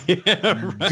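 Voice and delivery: ordinary talk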